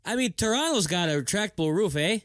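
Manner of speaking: mock Canadian accent, laughing; hammed-up Canadian twang with eh. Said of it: "a Canadian accent".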